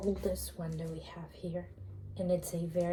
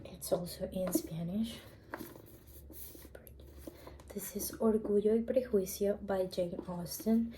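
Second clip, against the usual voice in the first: library whisper. Real, not acted.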